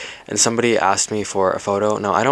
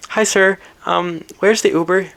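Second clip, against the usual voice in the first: sweet polite ask; 11 semitones higher, 4 dB louder than usual. Retold or imitated. Traveller asking an elderly man, overly sweet and high. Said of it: "I was like".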